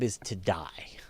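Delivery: a hushed, slowed whisper on the grim fact. Real, not acted. Host whispering the fate of supergiants to listeners. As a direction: drop to a whisper for effect. Dramatic point about dying stars.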